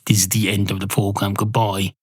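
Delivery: quick, offhand echo of a sign-off; dismissive sign-off repeat. Retold or imitated. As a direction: rattle off the rejected ending.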